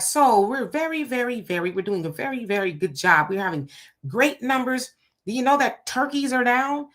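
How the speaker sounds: light mimicry of a rambling politician off script; Donald Trump. Host mocks a president skipping the teleprompter, light impression. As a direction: lightly imitate an ad-libbing president, repeating and wandering. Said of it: "'cause he don't read the teleprompter".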